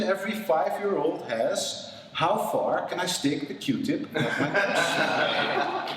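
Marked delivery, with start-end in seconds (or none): none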